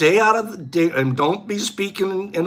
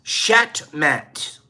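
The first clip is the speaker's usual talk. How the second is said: whispered; 2 semitones lower than usual. Shown as a demonstration. Repeating the Arabic origin of checkmate.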